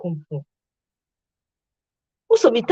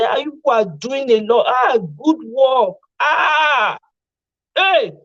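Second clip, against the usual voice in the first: mock praise; 2 semitones higher, slower than usual. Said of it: "You go say".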